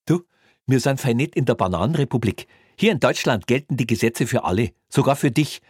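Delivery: high, loud, schoolmasterly policeman; lecturing Bavarian cop. Acted. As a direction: lecture him smugly. Greiner lectures Kreutner.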